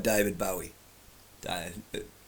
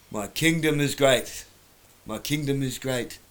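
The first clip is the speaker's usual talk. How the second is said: put-on terrible girl's voice; 3 semitones higher, 3 dB louder than usual. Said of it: "terrible girl's voice".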